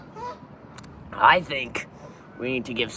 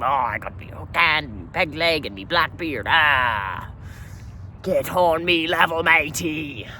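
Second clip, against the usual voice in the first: mock costume pirate; 3 semitones higher than usual. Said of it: "you got your pirate costume".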